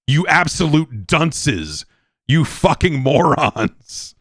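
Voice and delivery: slow, mocking insults at bulb syringe fans; mock rant. Ranting at bulb syringe makers, slow contemptuous insults. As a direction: drag out each insult with scorn. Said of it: "These people going".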